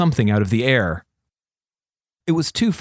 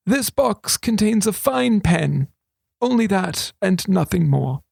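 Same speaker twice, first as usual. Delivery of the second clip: lightly voiced old wizard, slow and higher; a hint of a sly old regent; 7 semitones higher than usual. A narrator's reading. Regent confiding to thief, lightly voiced old man.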